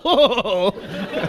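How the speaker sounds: imitated drawn-out "ohhh" of a scandalised crowd; exaggerated collective hoot; mock audience reaction. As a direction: mimic listeners losing their minds. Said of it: "you guys all".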